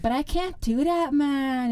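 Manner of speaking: high, loud Jamaican-sounding lilt; Jamaican accent. Real, not acted. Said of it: "like, Jamaican".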